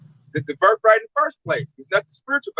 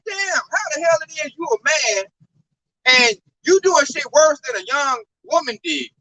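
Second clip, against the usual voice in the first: exasperated outburst; 4 semitones higher than usual. Retold or imitated. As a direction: scoff in disbelief at the new manager. Mocking a bad Edomite manager.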